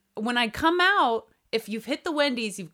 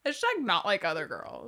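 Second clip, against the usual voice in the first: put-on Valley girl voice; 5 dB quieter than usual. Topping her own hashtag joke, mock Valley girl. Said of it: "her Valley girl voice".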